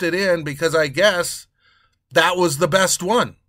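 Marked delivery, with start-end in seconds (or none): none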